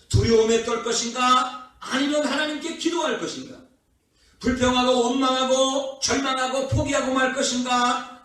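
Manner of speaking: high, driving pulpit questions; fervent preaching. Real, not acted. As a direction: press each either-or choice on the congregation, pitched high. Preaches rhetorical either-or questions. (힘주어 높은 목소리로 설교하듯)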